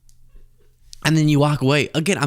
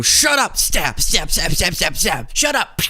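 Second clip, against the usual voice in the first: high, hammed-up stabbing chant; mock angry attackers; 6 semitones higher than usual. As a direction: jab each word like a stab.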